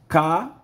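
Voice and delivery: put-on spelling out syllables for kids. Shown as a demonstration. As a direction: chant "Ca-va-lo." piece by piece for children. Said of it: "pronunciá-la".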